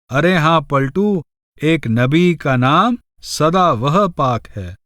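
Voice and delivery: slow, measured devotional verse; unhurried scripture-style verse reading; verse recitation. Acted. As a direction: recite the couplet slowly, drawing out the words.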